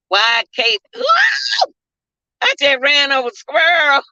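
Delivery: yelling in panic after hitting a squirrel; startled scream. Real, not acted. Driver screaming after running over a squirrel, shocked cry.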